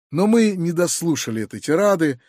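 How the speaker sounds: ordinary delivery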